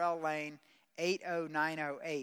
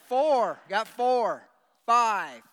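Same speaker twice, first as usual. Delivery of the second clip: auctioneer; 4 semitones higher, 11 dB louder, much slower than usual. Pretend. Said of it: "I feel like an auctioneer".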